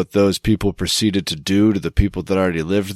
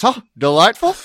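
much higher, prissy put-on posh accent; mock posh delight; 10 semitones higher than usual. Host voicing charmed outsiders, high mock posh coo. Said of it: "everyone goes".

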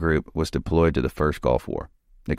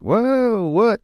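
whoa what, jumping way up in pitch; shocked whoa. Retold or imitated. Told he's picked for Delta, answering with high shocked whoa. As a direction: retell the jolt of disbelief, squeaking high.

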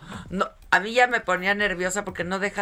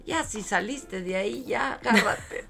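mock command; 4 semitones higher than usual. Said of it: "Le dije".

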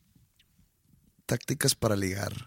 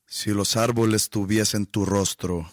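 hammed-up Vicente Fox accent, louder; 8 dB louder than usual. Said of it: "ese acento, ¿de dónde viene?".

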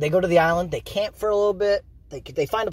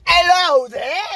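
bright high call, a good deal louder; cheery hello; 12 semitones higher, 6 dB louder, much slower than usual. Retold or imitated. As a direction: greet the shark like an old pal. Greeting shark as cute girl.

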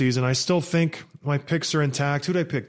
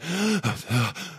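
frantic gasp; 2 semitones higher than usual. Retold or imitated. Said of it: "who is absolutely frantic".

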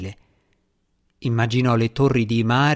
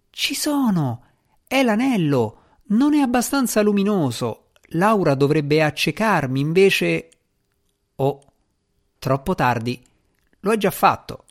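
higher, excited cat spirit voice; the cat cries out its discovery; alarmed djinn cat; 5 semitones higher than usual. Acted. Il gatto capisce, allarmato. (gatto djinn allarmato, voce alta)

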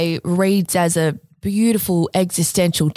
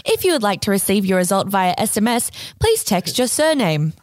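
robot voice. Acted. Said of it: "can I do a robot voice?".

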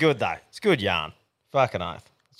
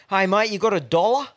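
higher-pitched imitation of a cadger; mock-friendly ask, pitch lifting; pestering cadger; 7 semitones higher, 3 dB louder than usual. Dealer asking the speaker for a dollar, mock pestering. Acting out the man begging a dollar.

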